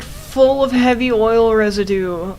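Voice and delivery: ordinary delivery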